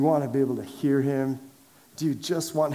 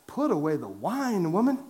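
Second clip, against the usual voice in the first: Eli; 4 semitones higher than usual. Acted. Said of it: "and Eli's like".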